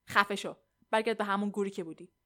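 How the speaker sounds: loud, angry dismissal; angry retort. Acted. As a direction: tell him off forcefully. Acted quarrel, Johnny snaps back. (با عصبانیت و صدای بلند)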